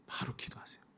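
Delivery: breathy hushed urging; whisper. Real, not acted. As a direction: whisper it to the congregation. Preacher drops to whisper. (속삭이듯 바로 기도하라고)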